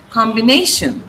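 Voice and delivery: combination said combi-NA-tion; stress before -tion. Shown as a demonstration. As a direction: put the weight on na in combination. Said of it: "syllable preceding T I O N should be stressed".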